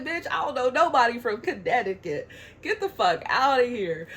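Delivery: indignant retort. Retold or imitated. Retelling her retort to email sender.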